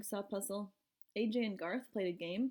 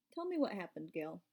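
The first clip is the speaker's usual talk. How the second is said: calmly; 3 semitones lower, 3 dB quieter than usual. Acted.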